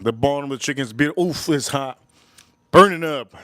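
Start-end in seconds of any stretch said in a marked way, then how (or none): 1.3-3.3 hot food in mouth. Real, not acted.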